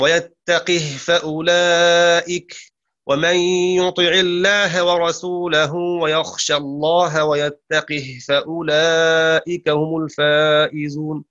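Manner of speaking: slow measured chanted verse; Quran recitation. Acted. Teacher recites the verse to students in measured chant.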